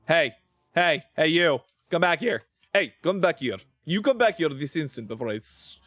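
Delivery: mock scolding in a Russian accent. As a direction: call them back with a put-on Russian accent. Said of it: "Why am I still doing the Russian accent?".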